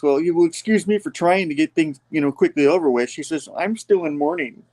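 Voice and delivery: high put-on voice for White Rabbit; a mocking high lady voice. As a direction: lightly voice the prim villainess.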